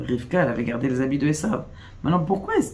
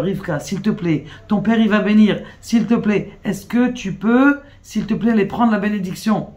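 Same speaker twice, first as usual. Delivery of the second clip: higher-pitched imploring, acted without real sobs; retold tearful plea; 5 semitones higher than usual. Teacher retelling a plea to take the blessing, tearful pleading. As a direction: plead insistently, lightly imitating someone in tears. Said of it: "Et elle est mitranenet, elle pleure".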